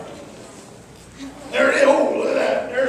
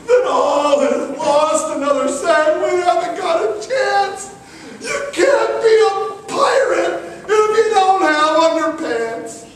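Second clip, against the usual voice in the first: despairing pirate; 5 semitones higher than usual. Acted. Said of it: "someone said".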